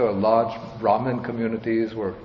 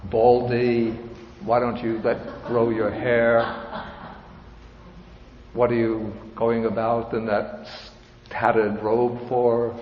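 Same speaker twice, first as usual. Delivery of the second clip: mild mock yell. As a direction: jeer at the monk, half-hearted. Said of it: "they will yell at him".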